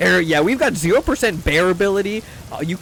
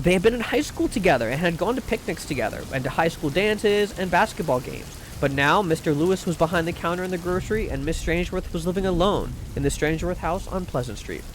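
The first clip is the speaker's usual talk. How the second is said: measured, softly read storytelling; audiobook-style reading with light dialogue; story narration; 5 dB quieter than usual. A narrator's reading. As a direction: read it aloud like a genteel short story. Reads a short story aloud.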